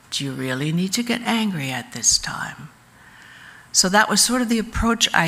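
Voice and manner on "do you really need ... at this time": hushed, calming whisper to an angry man; soft whisper. Retold or imitated. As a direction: breathe it out gently, almost voiceless. Chaplain counselling angry inmates.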